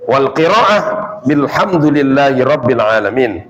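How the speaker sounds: measured, careful Arabic reading; Arabic text recitation. Shown as a demonstration. Teacher quoting the text to students, measured recitation. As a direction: read the hadith phrase out with care.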